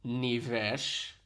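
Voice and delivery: mock-serious "Nivesh"; serious, rising at the end; imitated serious tone. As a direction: turn serious on the name. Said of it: "That's where she gets serious".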